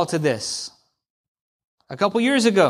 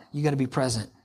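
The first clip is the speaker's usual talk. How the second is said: softer echo, leaning on gotta; quiet repeat; 6 semitones lower, 7 dB quieter, much faster than usual. Shown as a demonstration. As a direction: repeat it softly, gotta stressed, letting it sink in.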